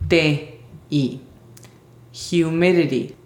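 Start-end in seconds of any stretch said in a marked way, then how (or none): 2.3-3.1 "Humidity" with both D and T softened to light taps; "Humidity" with a breath H-yu start and soft D and T. Shown as a demonstration. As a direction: say "Humidity" as hyu-MI-di-di, consonants soft. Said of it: "son con sonido suave".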